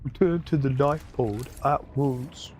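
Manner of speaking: stiff robotic announcement; mocking computer voice. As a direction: parrot the ship computer. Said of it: "I'm sorry if I mock the computer voice too much".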